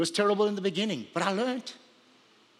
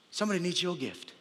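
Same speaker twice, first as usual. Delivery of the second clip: softer, letting the line sink in; softer repetition; 5 dB quieter than usual. Real, not acted. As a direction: repeat it quietly for weight. Repeats the line for effect.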